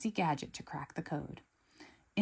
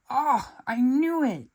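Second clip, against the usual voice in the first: loud, higher, slower "I knew it"; exclaiming; 7 semitones higher, 8 dB louder, slower than usual. Acted. Gru realising he was right, loud exclaim. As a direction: burst out in triumph. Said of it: "exclaims Gru".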